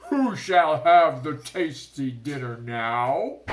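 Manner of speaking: loud, high mocking shark cry; triumphant hoot; gloating call. A narrator's reading. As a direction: taunt the dangling boy. Shark taunts trapped boy.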